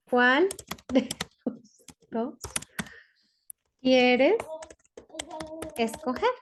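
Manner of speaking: word-by-word dictation with pauses; slow dictation. Shown as a demonstration. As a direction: pause after each word for writing. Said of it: "dictating word by word". (dictado palabra por palabra)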